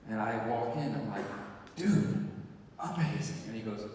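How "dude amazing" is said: higher, enthusiastic gushing; excited greeting. Retold or imitated. Actor gushing to a young director, excited. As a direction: greet him like you're blown away.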